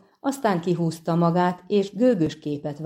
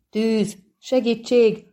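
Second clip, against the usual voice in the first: raised-pitch cry for help; bellowed alarm; 4 semitones higher, slower than usual. A narrator's reading. Halfling bursting into the main room, bellowing. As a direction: call out the alarm in a narrator's contained yell. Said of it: "bömbölte a fő helyiségbe toppanva".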